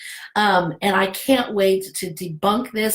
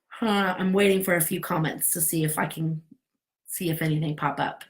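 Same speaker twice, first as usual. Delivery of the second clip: whispering; 4 semitones lower, 5 dB quieter than usual. Real, not acted. Waiting quietly for live comments.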